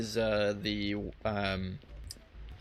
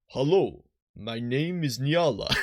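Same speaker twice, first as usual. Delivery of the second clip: put-on Russian accent; 2 semitones higher than usual. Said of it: "we'll, we'll do Russian".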